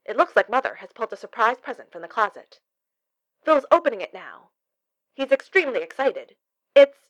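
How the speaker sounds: excited walkie-talkie report; rising excitement over the radio; crackly radio voice. A narrator's reading. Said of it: "voice crackled through the receiver".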